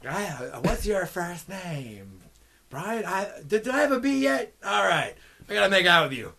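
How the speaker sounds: mock party-girl come-on; lightly acted bachelorette. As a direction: lightly imitate a reveler working the bar. Acts out bachelorette asking guys' names.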